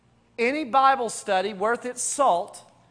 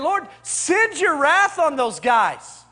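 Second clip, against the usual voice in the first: angry cry to God; 3 semitones higher, 4 dB louder, slower than usual. Retold or imitated. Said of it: "he's crying out to God".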